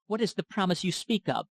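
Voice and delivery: high, abrupt demand; abrupt question. A narrator's reading. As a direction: cut in with a high-pitched question. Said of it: "abruptly asked Nina".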